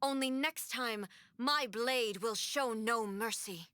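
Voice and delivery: slow, measured threat with a cold edge; slow menacing warning. Acted. Shogun warns the Kujo and Takatsukasa clans, slow and menacing. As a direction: let each word land like a final verdict.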